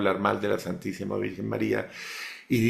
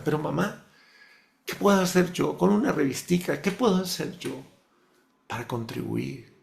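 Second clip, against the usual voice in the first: pleading, fading; 2 semitones lower, 4 dB quieter than usual. Retold or imitated. Son asks his mother what he can do, pleading softly. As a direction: ask helplessly, voice dying away.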